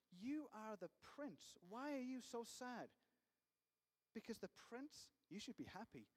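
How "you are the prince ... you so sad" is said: slow, coaxing, higher voice of a sly adviser; coaxing friend. Retold or imitated. Adviser coaxes the sad prince, slow and coaxing. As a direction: draw it out like a flattering friend. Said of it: "he said".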